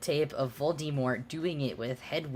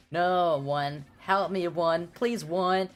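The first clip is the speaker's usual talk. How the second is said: high pleading cry; hammed-up terrified plea; mock terrified scream; 5 semitones higher, 3 dB louder, slower than usual. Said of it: "Brittany screamed terrifiedly".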